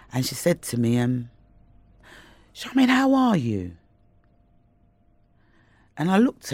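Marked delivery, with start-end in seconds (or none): 2.6-3.8 higher, slow, sincere check-in; sincere concern. Retold or imitated. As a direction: imitate a doctor asking slowly and sincerely. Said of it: "says it to you with sincerity".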